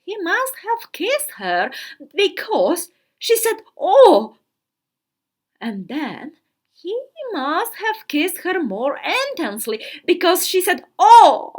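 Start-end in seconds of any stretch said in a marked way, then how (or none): 3.8-4.3 sharp breathy gasp of surprise; a startled, thrilled little cry. A narrator's reading. Sister kissed by the diplomat, a startled gasp. 11.0-11.5 a louder, more breathless cry; louder gasped oh. A narrator's reading. Kissed more intensely, sister cries out louder.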